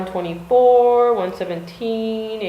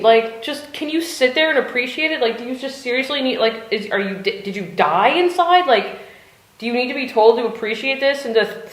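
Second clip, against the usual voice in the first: exasperated rant; 5 semitones higher than usual. Retold or imitated. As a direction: let the frustration spill over in a rant. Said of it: "I was like".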